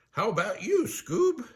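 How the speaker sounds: high, goofy cartoon question; Shaggy asking happily. Shaggy checking with his dog pal, high excited question. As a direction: ask brightly with pitch soaring.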